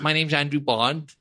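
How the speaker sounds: slow suave spy-style self-introduction; James Bond intro. Pretend. Introducing the friend like James Bond, mock suave. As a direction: say your name like 007, slowed down.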